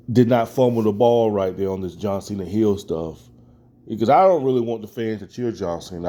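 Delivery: usual speaking voice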